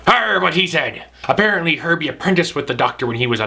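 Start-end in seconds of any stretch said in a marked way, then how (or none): 0.0-1.0 pirate voice. Acted. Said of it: "I be Cowhead the Pirate".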